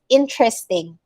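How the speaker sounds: "interesting" as IN-tres-ting; dropped E. Shown as a demonstration. Teacher giving the dictionary pronunciation, in-tres-ting. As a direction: say "interesting" in three syllables. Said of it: "we don't say the E".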